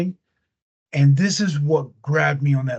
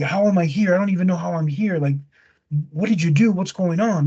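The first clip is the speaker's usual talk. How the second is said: mildly panicked retold voice, a little quicker; freaking out; 2 semitones higher than usual. Dead wife demands answers from her husband, mock freak-out. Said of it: "The woman starts freaking out".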